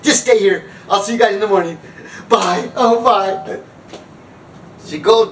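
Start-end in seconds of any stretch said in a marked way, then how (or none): 0.0-3.6 higher-pitched cheery goodbye; mock send-off. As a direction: imitate accommodating friends waving her off. Friends seeing her off, retold.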